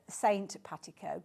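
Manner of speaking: "Saint Patico" said as two words, Saint then Patico; misheard as Saint. Shown as a demonstration. Host warns viewers what it sounds like, "Saint Patico" as two words. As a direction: split "Saint Patico" so the first part is the word Saint. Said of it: "it does sound like it's".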